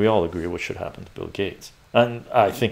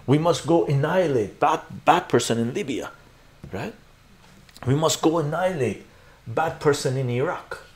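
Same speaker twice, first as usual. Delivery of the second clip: higher, dumbed-down mock slogan voice; mock warmonger; 5 semitones higher than usual. Streamer mocking those who cheer on wars, dumbed-down mock warmonger. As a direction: parrot it like a simple-minded follower. Mocking pro-war crowd in simpleton speech.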